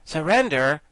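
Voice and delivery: can't believe his ears; astounded. Acted. Guardian echoes the girl's demand, astounded.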